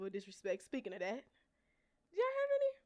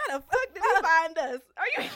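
retold outburst; 6 semitones higher, 9 dB louder than usual. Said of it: "I said".

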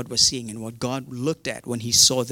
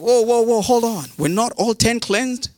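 high, loud incredulous protest; acted astonishment; 8 semitones higher, 4 dB louder than usual. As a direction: call a sudden halt, pitched way up. Acting Jesus halting the leper.

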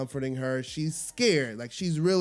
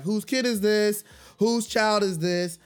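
demanding; 5 semitones higher than usual. Retold or imitated.

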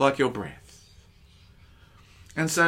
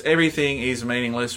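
proclaiming Solomon; 3 dB louder, faster than usual. Acted. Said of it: "start speaking like Solomon".

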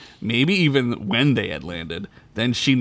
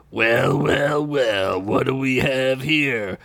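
lead knight; slower than usual. Acted. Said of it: "the lead knight said".

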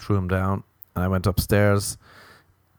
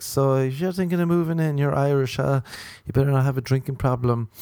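high woman voice; 6 semitones higher than usual. Retold or imitated. Voicing the girl roommate.

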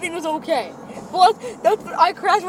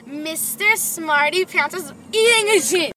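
slow, drawn-out introduction of a contender; contest announcer; 2 semitones higher, slower than usual. Pretend. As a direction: announce the challenger, stretching each word.

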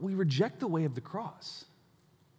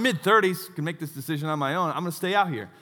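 retold yelling back. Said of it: "And I yelled back".

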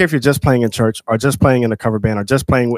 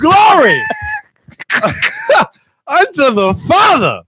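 church shout; slower than usual. Acted. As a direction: shout it like an amen corner. Hype man answering mock sermon.

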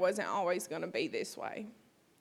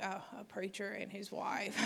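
sarcastic laugh; 12 dB quieter than usual. Retold or imitated. Mocking her own past sarcasm.

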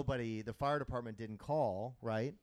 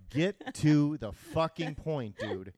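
impatient demand; 3 semitones higher, 6 dB louder, much slower than usual. Retold or imitated. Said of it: "and I'm like".

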